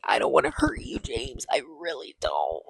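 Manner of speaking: breathy, hushed confession; lightly voiced lovesick girl; mock tender whisper.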